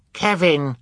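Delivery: put-on loud, high baby shout; cry out. A narrator's reading. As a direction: shout the name in alarm. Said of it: "cried Sonny".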